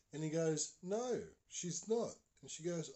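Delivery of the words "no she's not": high, very slow reply; boy's reluctant answer. Retold or imitated. Boy tells neighbour mum is out, high slow voice. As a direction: imitate the boy, stretching each word out.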